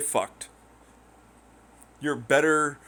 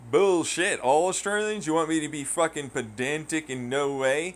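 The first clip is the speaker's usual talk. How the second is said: mock retort; 6 semitones higher, 3 dB louder than usual. Retort to critic.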